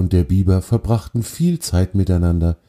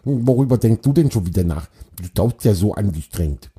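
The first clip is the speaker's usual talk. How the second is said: cheerful beaver; 2 semitones higher, faster than usual. Acted. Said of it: "sagte er fröhlich".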